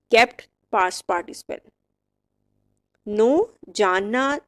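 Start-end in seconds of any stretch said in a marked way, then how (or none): 3.1-3.5 "नो" starting straight on n, no k sound; silent K. Shown as a demonstration. Teacher giving the verb's first form, "नो" with silent k. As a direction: say "नो" for know with the k left silent. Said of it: "वो pronounce तीनों में ही नहीं करना".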